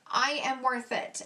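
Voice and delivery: slow, deliberate reading; slow repeat. Real, not acted. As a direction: spell it out word by word. Repeats shade name more slowly.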